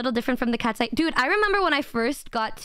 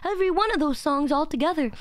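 lightly mocking fan request; imitating eager fans. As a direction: mimic viewers pestering for a song. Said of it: "You guys are like".

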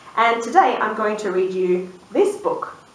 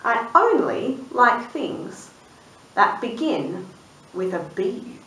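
lightly voiced sheep, slow and pondering; sheep thinking aloud; slower than usual. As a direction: mull it over slowly as the sheep. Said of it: "and she thought".

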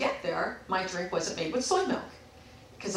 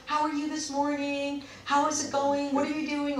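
higher-pitched, chirpy greeting; friendly imitation; 4 semitones higher than usual. Barista welcoming regular customer, friendly.

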